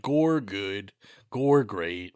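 lightly voiced low, dim-witted reviewer; a hint of a blunt caveman critic; mock simpleton. Host mocking their own shallow reviews, mock simpleton. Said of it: "we're here just like".

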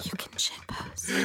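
hushed mock subliminal message; whisper. Host whispering a fake hidden message. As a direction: whisper it to the audience.

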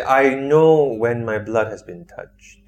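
slow menacing monster voice; slow, ominous threat through the door. Acted. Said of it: "you hear the voice again".

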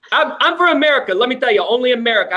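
lightly voiced boasting politician; hint of a bragging president; Donald Trump. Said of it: "Donald Trump".

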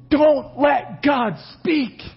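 slow, loud plea; frightened crowd. Retold or imitated. People at the mountain begging Moses, loud and slow. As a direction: shout it slowly, begging.

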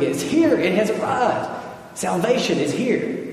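imitated joyful screaming. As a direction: act out a crowd's acclamation, pitch jumping up. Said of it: "they were screaming".

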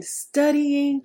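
drawn-out emphatic restatement; slow solemn repeat. Shown as a demonstration. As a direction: lay it down again slowly. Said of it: "I'll say that again".

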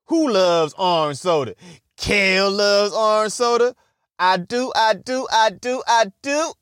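put-on eager sitcom kid rising up; Kel catchphrase. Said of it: "Oh, Kenan and Kel".

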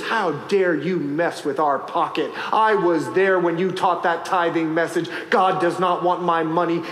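mock angry woman. Woman at the gas station scolding her pastor, low and indignant. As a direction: scold him for preaching on tithing. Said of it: "She goes".

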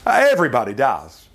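a hint of a scoffing skeptic; imagined objector. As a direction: toss it off like a doubter. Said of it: "somebody's gonna say".

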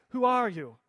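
light attempt at a Spanish accent; half-hearted Spanish-accented question. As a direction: ask it with a mild Spanish accent. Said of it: "that's my best Spanish accent".

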